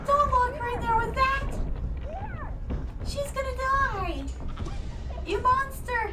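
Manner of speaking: excited yelling. Real, not acted. Yelling at the movie screen.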